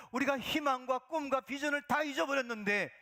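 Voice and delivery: normal talking voice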